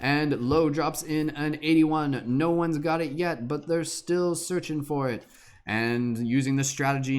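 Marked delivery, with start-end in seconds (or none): 0.0-5.2 race caller. Acted. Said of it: "commentary, horse racing, announcing".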